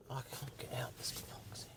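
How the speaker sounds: breathy whisper under his breath, stuck; exasperated whisper. Real, not acted. Driver stuck in a parking box, whispering in frustration. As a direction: mutter it to yourself in defeat.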